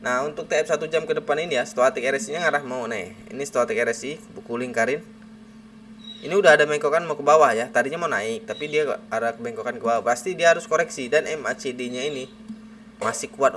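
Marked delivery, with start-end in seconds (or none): 0.0-11.7 talking around a cigarette; cigarette in mouth. Real, not acted. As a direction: speak with a cigarette between the lips. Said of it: "kita sambil ngerokok aja ya".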